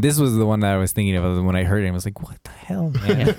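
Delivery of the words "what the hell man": high, squeaky what-the-hell; startled yelp of disbelief; jumpy gasp at a floating ghost; shocked disbelief. Retold or imitated.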